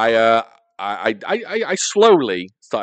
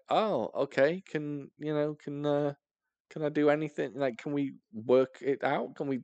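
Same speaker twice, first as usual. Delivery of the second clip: higher, softer, halting mock plea; retold meek pleading; 4 semitones higher, 6 dB quieter than usual. Boy asking to work it out, meek halting plea. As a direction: shrink the voice, hesitant and hopeful.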